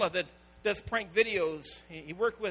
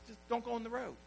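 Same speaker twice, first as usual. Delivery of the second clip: mild parental warning; 7 dB quieter, faster than usual. Retold or imitated. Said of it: "tell your kids".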